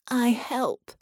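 a broken creature keen to help; eager ship voice. A narrator's reading. Dying ship eagerly agreeing to help Sarah and John.

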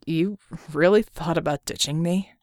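Red's voice. Acted. Red's voice in the story.

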